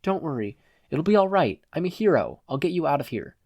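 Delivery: gentle reassurance. Acted. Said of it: "soft, reassuring smile".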